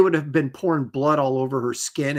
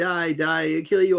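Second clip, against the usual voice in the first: mock laughing speech, higher pitch; 3 semitones higher than usual. Retelling a character's threat from an episode, imitating laughing while talking. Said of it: "and he's laughing".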